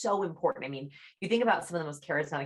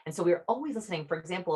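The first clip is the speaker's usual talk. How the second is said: ordinary talk, nothing marked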